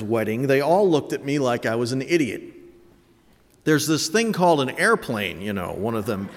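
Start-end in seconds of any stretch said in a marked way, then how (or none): 3.6-5.7 dry mocking quip; sarcastic. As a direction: tease him like he's clueless. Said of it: "jested sarcastically".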